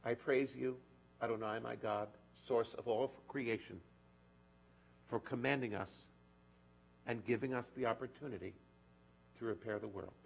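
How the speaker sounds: measured, solemn blessing, softening at the end; blessing recitation. Acted. Rabbi reciting a blessing for the congregation, measured and solemn. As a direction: intone the blessing gently.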